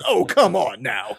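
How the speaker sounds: high, slow fed-up groan; exasperated. Retold or imitated. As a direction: drag out the complaint. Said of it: "And he kinda goes".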